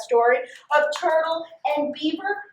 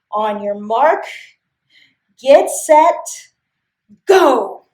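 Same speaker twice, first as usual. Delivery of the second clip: race call; 5 dB louder, slower than usual. Acted. Beaver starts the race.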